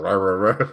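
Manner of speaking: playful, laughing imitation of a noise; imitated rah-rah noise. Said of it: "So she was making the".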